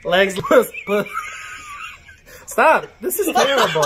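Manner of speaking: reading lyrics with delayed feedback; stumbling, laughing, half-shouting lyrics; speech jammer struggle. Real, not acted. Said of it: "Speech Jammer app".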